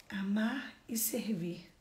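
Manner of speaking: slow, soft near-whisper; hushed emphasis. Real, not acted. Preacher repeats the key words to the congregation, hushed. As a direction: let the key words sink in softly.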